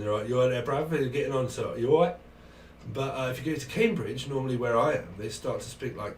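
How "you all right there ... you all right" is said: casual London street greeting; London accent. Acted. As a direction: greet a mate in London talk. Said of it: "isn't more in London".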